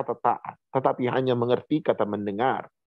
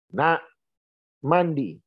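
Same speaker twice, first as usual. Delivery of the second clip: voice raised an octave; 2 semitones higher, much slower than usual. Retold or imitated. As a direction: nudge the pitch up a little to press the child. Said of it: "naikin satu oktav dong suara saya".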